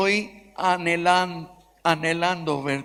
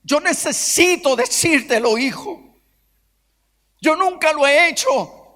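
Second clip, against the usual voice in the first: pleading father; 3 semitones higher than usual. Retold or imitated. Father begging forgiveness on phone.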